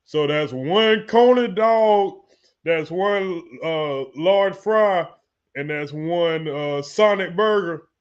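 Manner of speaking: slow, deliberate order read-back; cook reading back order. Acted. Cook repeating the customer's order back, slow read-back. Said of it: "hold on, let me do".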